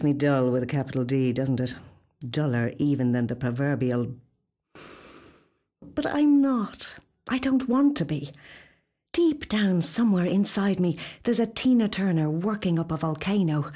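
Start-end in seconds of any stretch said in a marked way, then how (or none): 5.9-8.3 defiant protest. Acted.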